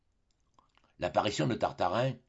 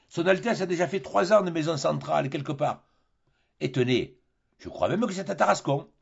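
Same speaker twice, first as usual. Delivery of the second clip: louder, higher lecturing skipper; captain lectures the fooled Tartarin, louder and higher; sententious captain; 5 semitones higher, 3 dB louder than usual. Acted. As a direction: lay down the lesson like a know-all sailor. Barbassou tells of prince.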